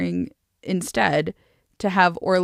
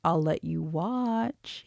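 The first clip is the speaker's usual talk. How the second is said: slow, softer teasing offer; tempting; 2 semitones lower, 6 dB quieter, slower than usual. A narrator's reading. Gav teasing the princess about sending him back, tempting. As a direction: draw it out as a playful temptation. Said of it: "wagging his eyebrows temptingly".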